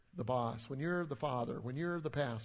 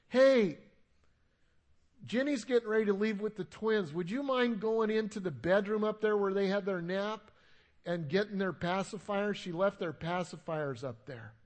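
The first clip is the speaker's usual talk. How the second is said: imitated wife calling up, louder; nice calling yell; 3 semitones higher, 6 dB louder than usual. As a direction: call upstairs, friendly but raised. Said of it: "yells up, in a nice way she yells".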